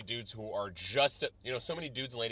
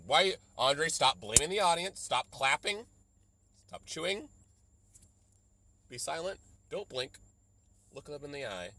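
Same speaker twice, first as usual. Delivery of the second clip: mock self-scolding; 3 semitones higher, 4 dB louder than usual.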